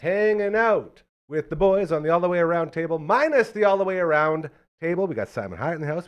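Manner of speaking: host resetting the show, upbeat announcer voice; podcast host intro. Acted. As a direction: announce it like a pro broadcaster. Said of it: "I will reset because I'm a professional".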